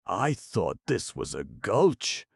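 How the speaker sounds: a tired elephant yawning a remark. A narrator's reading. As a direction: stretch it out through a yawn. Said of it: "yawned Kabumpo".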